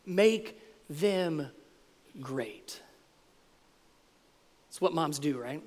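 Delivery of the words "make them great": soft, drawn-out plea with pauses; acted mom's plea, dropping very quiet; hushed mock plea. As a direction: let each bit sink softly, as a mom begging a favor. Voicing mom's plea to Jesus.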